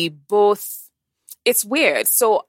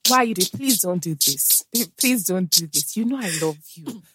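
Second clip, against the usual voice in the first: mock pleading lover. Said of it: "'Cause you're like".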